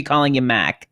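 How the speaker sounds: "Mac" for Mark with the East Coast R dropped; East Coast accent. Shown as a demonstration. Guest jokes her accent returns after drinks, East Coast accent. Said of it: "the accents start to come back".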